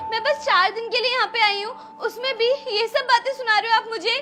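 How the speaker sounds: tearful. Acted. Daughter hurt in quarrel.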